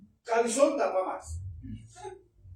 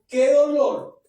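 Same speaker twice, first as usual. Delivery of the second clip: retold lament; 6 semitones higher, 7 dB louder, slower than usual. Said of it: "el Espíritu Santo me decía".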